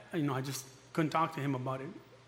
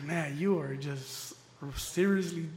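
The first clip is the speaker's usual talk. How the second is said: slow scolding counselor; much slower than usual. Retold or imitated.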